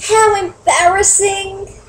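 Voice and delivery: high, slow, mock-cringing remark; teasing how embarrassing. Real, not acted. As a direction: tease the clumsy landing. Reader comments on landing.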